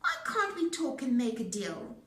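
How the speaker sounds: high, loud squealing pig; a piglet begging for its life; pig pleading. A narrator's reading. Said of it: "He cried".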